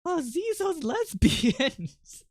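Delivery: high, slow, bad French accent. Streamer practicing the woman's voice, really bad French accent. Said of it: "practice that really bad, like, French accent".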